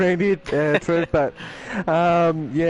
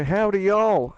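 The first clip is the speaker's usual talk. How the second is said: put-on American accent; 4 semitones higher, much slower than usual. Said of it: "he sounds a little bit American".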